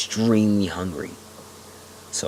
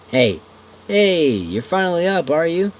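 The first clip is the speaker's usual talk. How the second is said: put-on old man voice; 10 semitones higher, 7 dB louder than usual.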